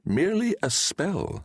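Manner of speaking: a lightly voiced old wizard, gently correcting; a hint of a wise old sorcerer. A narrator's reading. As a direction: Deliamber speaks to Valentine in the dream. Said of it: "said Deliamber".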